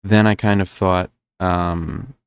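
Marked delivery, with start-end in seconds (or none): 0.7-1.1 "thought" said with a broad open New Jersey "aw" vowel; "thought" with the vowel pulled long and open like a New Yorker; Jersey-tinged thought. Real, not acted. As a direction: let "thought" slip into a Jersey "thawt". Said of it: "why am I saying thought like that".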